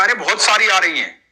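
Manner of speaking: put-on a boy warning the old man to stop; young boy. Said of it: "तो बच्चे ने कहा".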